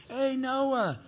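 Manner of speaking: a taunting townsman yelling, high and loud; hollering. Retold or imitated. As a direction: jeer at him from the road. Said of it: "hollering at him".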